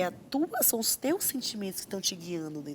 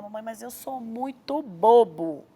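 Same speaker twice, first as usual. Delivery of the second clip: slow, louder, lightly voiced child; self-deprecating child; 6 dB louder, slower than usual. Child home from school confessing to mother, mildly upset. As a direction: draw out a child's complaint, lightly acted.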